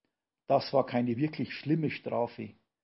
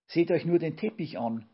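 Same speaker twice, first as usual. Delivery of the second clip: higher, louder complaining wail; whining; 5 semitones higher, 6 dB louder than usual. A narrator's reading. Yvonne whining to everyone about the ruined carpet. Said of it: "hörte man Yvonne jammern".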